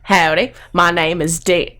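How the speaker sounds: hokey Southern introduction; amateur Texan accent; bad Texas accent. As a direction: greet them in a faked Texan accent. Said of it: "I have a terrible accent".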